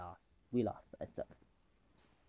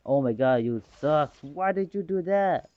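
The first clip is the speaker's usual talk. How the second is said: voicing a teammate's scolding ping; mock annoyed teammate; playful imitation of a teammate complaining; 5 dB louder than usual. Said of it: "that means that".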